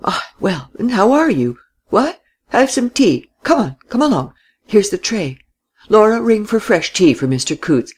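put-on high, fluttering old man's voice; fussy old man. A narrator's reading. Old man fussing over guest.

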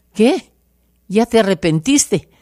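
surprised husband. Retold or imitated. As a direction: jump up in disbelief.

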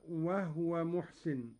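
وهو said "wah-wa", no vowel after the h; silent vowel on ha. Shown as a demonstration. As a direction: close the h in وهو, "wahwa muhsin". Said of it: "وكذلك قوله تعالى".

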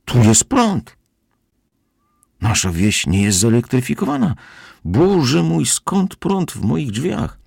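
high-pitched, agitated outburst; alarmed cry. A narrator's reading. Housekeeper finds electricity in her door, crying out. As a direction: exclaim in rising panic, voice climbing very high. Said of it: "krzyknęła gospodyni".

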